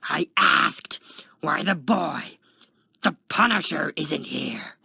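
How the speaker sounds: angry insistence. A narrator's reading. Taskmaster demands an answer from the guard, angrily. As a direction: hit each phrase hard.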